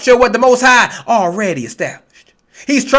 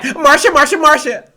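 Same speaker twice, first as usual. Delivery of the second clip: lightly voiced whiny sibling, a bit higher; mock them as a jealous whiny sister; whiny Marsha quote; 4 semitones higher than usual. Preacher mocking jealous listeners as whiny sister, lightly higher. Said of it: "That's what you sound like".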